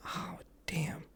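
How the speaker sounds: breathless whisper to himself; whispered gushing. Retold or imitated. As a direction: whisper it like you can't believe how hot she is. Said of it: "I was like".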